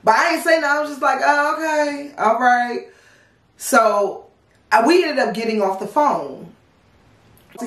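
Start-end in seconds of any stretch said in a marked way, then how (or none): 1.2-2.9 fake agreeable. Pretending to go along with him.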